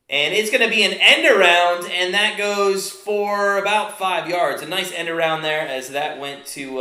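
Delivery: live football call, steady pace; play-by-play. Acted. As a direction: call the downs like a broadcaster.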